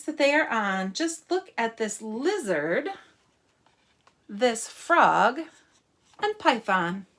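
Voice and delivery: deliberate, lilting picture-book reading; story reading. Acted. Teacher reads about spotted animals to children, lilting story reading. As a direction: read it out with emphasis on key words.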